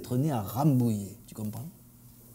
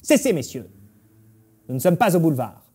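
lightly voiced prim director; a touch of starchy reproof; pinched director; faster than usual. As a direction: stop them primly, with mild disdain. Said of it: "tout pincé".

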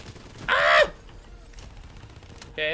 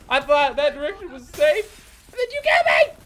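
loud, higher, exasperated yelling at a teammate; angry yelling; 9 semitones higher, 8 dB louder than usual. Real, not acted. Player yells at teammate Hendrix for getting him killed, loud and angry. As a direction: let him have it, outraged.

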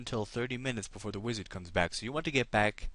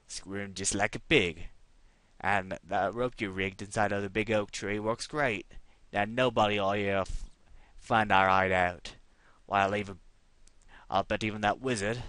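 louder gloating outlaw voice; scheming bandit; 6 dB louder than usual. Acted. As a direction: brag like a crook over his ale. Voicing bandits' conversation.

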